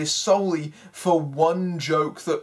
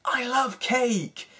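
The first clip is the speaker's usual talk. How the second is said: higher, slow, goofy cartoon voice for a fat-joke line; a dopey, higher character voice, drawn out slowly; mock fat-joke character; 6 semitones higher, slower than usual. Mocking the voice of the chubby hedgehog character. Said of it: "they give him all the fat jokes".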